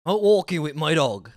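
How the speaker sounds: imitated West Country, walking ending in "in"; West Country accent. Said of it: "Tom is doing an I N ending".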